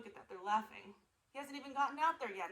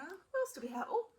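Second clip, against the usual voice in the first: ordinary delivery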